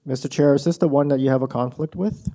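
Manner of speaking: muffled voice, as if hand over mouth. Real, not acted. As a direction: speak through a covered mouth, muffled. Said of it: "your voice is a little muffled".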